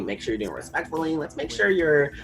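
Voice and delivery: put-on sweetly patronize, like praising a child; mock white ally voice. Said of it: "It's like".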